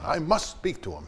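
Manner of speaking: retold insistent demand; imitating an insistent Dorothy. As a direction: lean on each word like a diva. Dorothy slams fist, demands.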